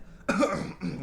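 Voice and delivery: clearing the throat on purpose; demonstrated throat clearing. Retold or imitated. Showing viewers how he clutched his chest, throat clearing. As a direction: act out clearing your throat. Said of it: "like this and stuff like that".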